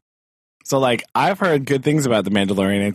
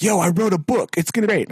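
mock boastful author; 8 semitones higher than usual. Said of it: "he was like".

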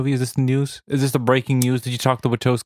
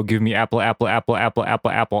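robotic repetition; 3 semitones lower than usual. Retold or imitated. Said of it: "it would go".

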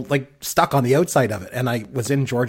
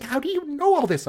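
high-pitched retold question; imitated amazement; 14 semitones higher than usual. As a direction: mimic an incredulous wife, voice lifted high.

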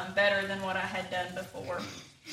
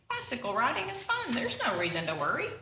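cheerful Pig; 3 semitones higher than usual. Acted. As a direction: toss it off brightly as Pig. Pig voiced in storybook.

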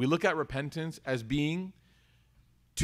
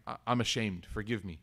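quiet ashamed plea; 6 semitones lower, 6 dB quieter than usual. Retold or imitated. Confessing to the wronged person.

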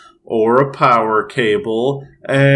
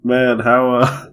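put-on Australian accent. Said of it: "I'm Australian".

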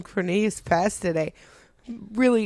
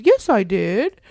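put-on kid's denial; 3 semitones higher, 6 dB louder, slower than usual.

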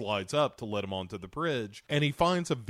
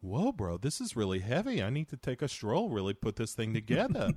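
mock-overwhelmed bro impression; swooping, singsong bro voice; Mark Wahlberg. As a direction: play a dazed, dim bro. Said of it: "a rapper is like".

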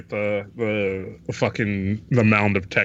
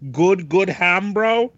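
high, slow, loud relish; enthusiastic ham praise; 8 semitones higher, 4 dB louder, slower than usual. Real, not acted. Friends hyping spiral ham, high slow relish. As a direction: savour the words good ham. Echoing joke about ham.

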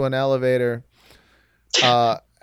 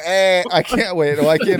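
light Boston accent, hammed up; a loose Boston townie voice. Friends trading movie lines, a light Boston accent. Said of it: "I do this accent".

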